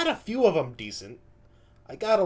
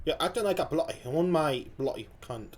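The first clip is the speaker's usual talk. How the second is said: tentative Australian accent. Shown as a demonstration. Reactor retries the comedian's line, tentative Australian accent. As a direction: try Australian, unsure of it. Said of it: "Something like that, maybe?".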